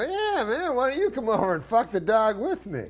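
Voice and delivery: high, breezy mock enthusiasm; eager invitation. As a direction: play the oblivious, keen friend inviting someone along. Acting out an eager, misunderstood invitation.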